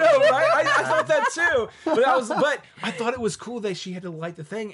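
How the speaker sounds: high, loud, through laughter; laughing agreement. Real, not acted. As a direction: squeal agreement while cracking up. Cracks up at the shared joke.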